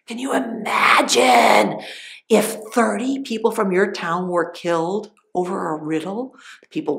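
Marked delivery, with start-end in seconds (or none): 0.1-1.8 urgent stage whisper. Real, not acted. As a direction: push the breath hard on imagine. Storyteller repeats, stronger.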